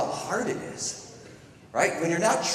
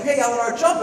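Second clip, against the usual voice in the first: high, loud imitation of cheering siblings; excited coaxing; 9 semitones higher, 9 dB louder than usual. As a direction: urge a toddler on, retold. Siblings coaching toddler to jump.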